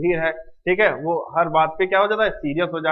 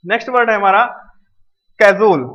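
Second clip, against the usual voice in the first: announced loudly; 5 dB louder, faster than usual. Shown as a demonstration. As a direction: call out कैजुअल loudly and clearly as the new word. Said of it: "क्या है?".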